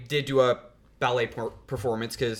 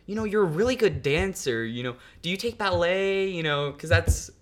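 put-on higher-pitched chatty old lady; lightly voiced old woman; 6 semitones higher than usual. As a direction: imitate an old lady making friendly small talk. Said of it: "she would say".

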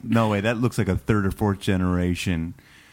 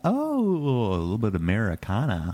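shopkeeper voice; 6 semitones higher than usual. Acted. Shopkeeper spots the sale.

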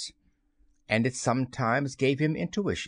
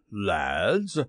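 shaken; 3 semitones lower than usual. A narrator's reading. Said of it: "shaking a little".

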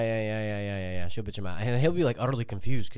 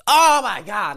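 foreign driver voice; 10 semitones higher, 9 dB louder, much slower than usual. Retold or imitated. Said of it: "some foreign dude".

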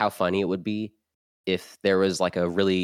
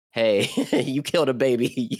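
tough cop voice; 5 semitones higher, 4 dB louder than usual. Acted. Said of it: "he's like".

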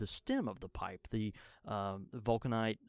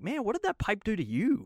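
put-on Mississippi accent; 10 semitones higher, 5 dB louder than usual. Mock reply to customer.

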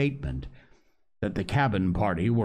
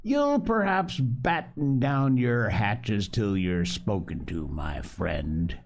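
truculent; slower than usual. Acted. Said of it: "cried Silver, truculently".

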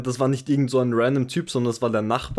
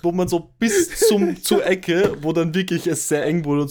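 swept up in telling it; excited storytelling burst; 5 semitones higher than usual. Real, not acted.

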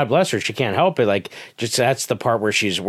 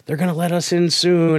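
higher-pitched, encouraging reassurance; comforting; 8 semitones higher, 3 dB louder than usual. Retold or imitated. Older girl in line comforting an upset child, reassuring. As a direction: imitate a young girl soothing a worried child. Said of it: "trying to comfort her and be like".

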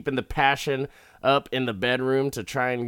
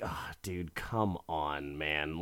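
low, much softer exasperated sigh of a line; weary protest; 6 semitones lower, 9 dB quieter than usual. Retold or imitated. Wife pleads with jealous husband, weary protest. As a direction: imitate a worn-out wife, dropped low and quiet.

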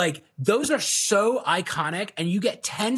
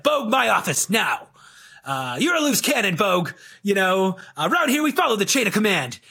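grouchy sales boss; 3 semitones higher than usual. Acted. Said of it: "he yells a lot of cop cliches".

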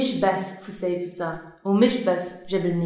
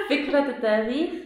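laughing; 5 semitones higher, faster than usual. Real, not acted. Laughs while repeating phrase.

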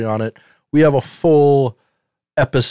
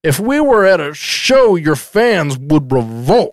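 mock angry dad; slower than usual. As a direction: lecture him like a fed-up sitcom dad. Playing the scolding dad.

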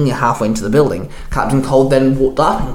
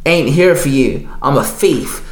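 snapped. Acted. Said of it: "Captain Cold snapped".

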